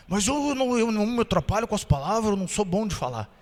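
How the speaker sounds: timid excuse. Retold or imitated. Shy miner saying he's no speaker: mild timid murmur. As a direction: mumble the excuse shyly. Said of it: "tímido".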